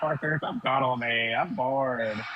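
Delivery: very slow, stretched-out, coaxing voice. Mocking a friend by acting out his girlfriend calling him away: imitating the girlfriend. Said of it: "she's like".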